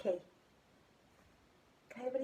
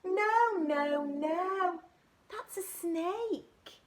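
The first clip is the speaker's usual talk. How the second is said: higher no no no, slow on snake; eager correcting; excited correction; 8 semitones higher, much slower than usual. Acted. Little monkey telling the butterfly no, that's a snake, high and excited.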